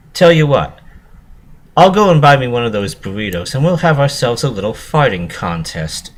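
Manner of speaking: pony proposing a farting contest; eager proposal. A narrator's reading. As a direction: pitch the idea eagerly.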